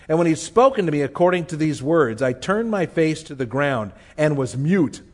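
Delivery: measured, solemn reading of the passage; scripture reading. Acted. Preacher reading Daniel's vision to the congregation, solemn. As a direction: read the vision as sacred text.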